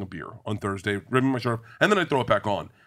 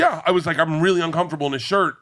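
still laughing; 6 semitones higher, 5 dB louder, faster than usual. Retold or imitated. Retelling discomfort, still laughing.

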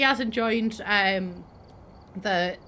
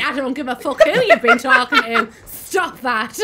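louder, exasperated telling-off; mock scolding; 7 dB louder than usual. Retells own scolding outburst.

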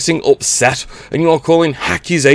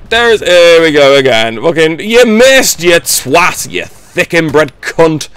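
real gamer rage; 2 semitones higher, 5 dB louder, slower than usual. Real, not acted. Raging at opponent in game.

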